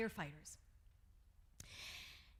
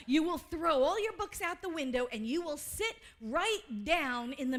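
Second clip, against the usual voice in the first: louder, punching "your" and "window"; emphatic repeat; 3 semitones higher, 5 dB louder than usual. Shown as a demonstration. Preaching the Holmes line to the congregation, louder and emphatic. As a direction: drive the quote home with force. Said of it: "See, I told you he said that".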